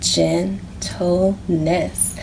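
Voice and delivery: "Gentleness" stretched very slowly like swinging a lasso; very slow stretched word. Shown as a demonstration. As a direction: draw out "Gentleness" as you swing. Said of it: "Let's lasso it".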